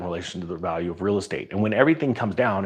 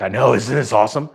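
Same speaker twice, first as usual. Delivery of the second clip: louder, delighted retort; gleeful; 3 semitones higher, 6 dB louder than usual. Retold or imitated. Answering worried coworkers during the crash, louder and gleeful. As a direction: revel in the chaos.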